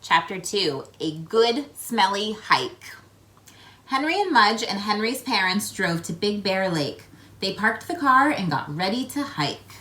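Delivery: put-on lively read-aloud for young children; story narration. A narrator's reading. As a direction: tell it like a picture book to kids. Reads picture book aloud.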